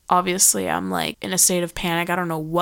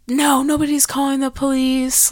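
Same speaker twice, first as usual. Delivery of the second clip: higher-pitched mock-casual refusal; nonchalant; 6 semitones higher, 3 dB louder than usual. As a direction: imitate someone waving off the whole emergency. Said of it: "just be so nonchalant about everything".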